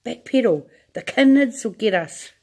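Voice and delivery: high, loud panicked shouting. A narrator's reading. Grandma shouting at Wonka to stop, loud panic. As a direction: scream the orders in terror. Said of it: "shouted Grandpa, Grandma Josephine".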